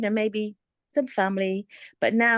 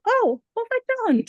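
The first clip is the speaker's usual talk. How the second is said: mock panic; 14 semitones higher than usual. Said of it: "Then I thought".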